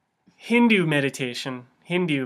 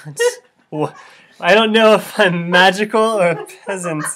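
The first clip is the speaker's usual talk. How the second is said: mock guru bluster; 4 semitones higher, 8 dB louder than usual. Guru flailing, louder higher.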